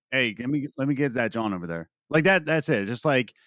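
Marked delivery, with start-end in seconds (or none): 0.1-1.9 quick casual Philly accent. Shown as a demonstration. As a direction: ask for it fast in Philly slang. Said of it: "So it's just like".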